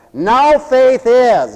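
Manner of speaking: "Now" stretched out, high and loud; stress on NOW. Shown as a demonstration. Preacher setting faith against tomorrow, stress on NOW. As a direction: preach it slowly, hammering "Now". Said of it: "so you gotta say".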